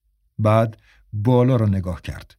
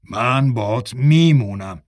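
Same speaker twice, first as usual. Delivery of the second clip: slow and stubborn, each word set down. Acted. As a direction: insist slowly that you stay. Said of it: "با سماجت گفت". (با سماجت و آهسته)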